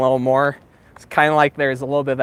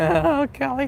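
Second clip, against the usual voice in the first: very high cracking voice, squeaky; 13 semitones higher, 3 dB quieter than usual. Talking to the camera while showing a spot, voice cracking. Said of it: "My voice cracked".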